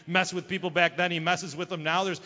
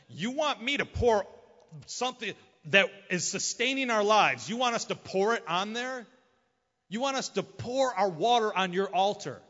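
incredulous questions, pitched up a touch; indignant disbelief; 3 semitones higher than usual. Retold or imitated. Thirsty people asked to pour out water, incredulous. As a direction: protest an absurd request, haltingly at first. Voicing indignant Israelites during drought.

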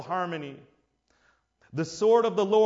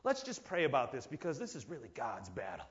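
passive believer; 10 dB quieter than usual. Retold or imitated. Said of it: "just say".

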